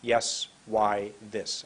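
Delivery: word list said slowly, in small groups; measured, careful teacher's word list. Shown as a demonstration. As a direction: read the words out unhurriedly with pauses. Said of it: "I'm going to say them slowly".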